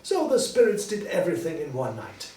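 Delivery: put-on high, lively old miser turned joyful; high, eager old man calling a boy; cheerful old Scrooge. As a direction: play Scrooge bursting with glee. Narrator voicing Scrooge.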